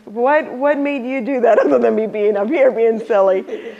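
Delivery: ordinary talk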